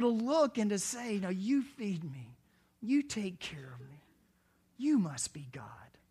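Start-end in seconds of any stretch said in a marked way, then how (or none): 1.2-6.0 a touch of reverence, unhurried; devoted dog. Acted. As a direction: stress YOU, slowing down as it sinks in. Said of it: "we need more dogs in church".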